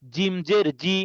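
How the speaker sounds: "জি" pronounced with a hard j sound; firm j. Shown as a demonstration. Teacher demonstrating the letter jim to students, firmly hardened j in "জি". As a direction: press firmly on the j of "জি". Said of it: "দেখেন শক্ত করতেছি".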